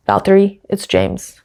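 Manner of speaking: put-on mild British accent, calm radio message; understated British accent; James Vowles impression. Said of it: "but in a British accent".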